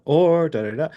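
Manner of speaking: da-da-da rising high at the end; upward inflection. Shown as a demonstration. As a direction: lift the pitch on the last da-da-da, sounding unsure. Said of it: "that sounds uncertain".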